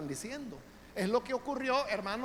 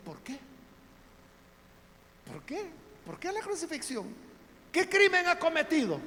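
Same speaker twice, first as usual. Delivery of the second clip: high, rising puzzled questions, ending louder; Pilate baffled; 10 semitones higher, 5 dB louder than usual. Acted. Pilate asks the crowd why crucifixion, baffled and insistent. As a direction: Pilate demanding a reason, pushing harder. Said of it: "y dice".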